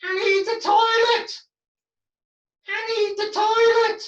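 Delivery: near-ventriloquist demo; barely moving lips. Shown as a demonstration. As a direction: say it almost like a ventriloquist. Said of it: "But then he might talk like this".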